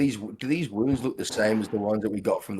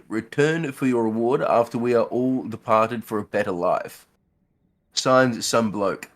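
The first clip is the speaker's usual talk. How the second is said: put-on old man voice; 4 semitones higher, 7 dB louder than usual. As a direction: read it like a creaky old man. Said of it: "old man voice?".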